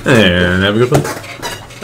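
slow, drawn-out captain farewell; pilot sign-off. Pretend. Aaron joining the pilot bit, slow captain goodbye. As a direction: stretch it out like a captain. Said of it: "do a pilot voice".

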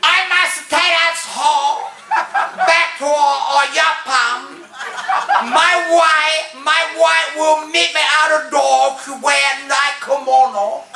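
high mock-Japanese accent, halting; ranting Japanese businessman. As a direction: keep up a high caricatured Japanese rant. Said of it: "and then he keeps going".

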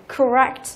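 "correct" with a light first syllable, stressed rect; second-syllable stress. Shown as a demonstration. Teacher illustrates the stress rule, "correct" stressed on rect. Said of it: "trọng âm của nó lại rơi vào âm thứ hai".

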